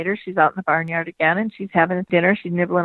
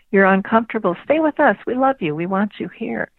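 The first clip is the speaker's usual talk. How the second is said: higher, urging invitation; earnest pleading welcome; 3 semitones higher than usual. Acted. Corral animals urging Betty to stay, earnest welcome. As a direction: coax her to stay, pitched up.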